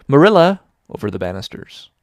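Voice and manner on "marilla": high, loud plaintive cry down the stairs; plaintive call. A narrator's reading. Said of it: "a plaintive voice calling".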